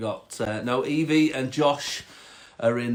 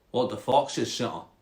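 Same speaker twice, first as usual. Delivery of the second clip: curious Scottish frog; 3 semitones lower, 3 dB quieter than usual. Acted. Frog quizzing the cat, Scottish accent. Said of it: "a Scottish frog".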